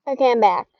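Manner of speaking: muffled voice under a helmet. Real, not acted. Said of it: "if it sounds weird, I have headphones under my helmet".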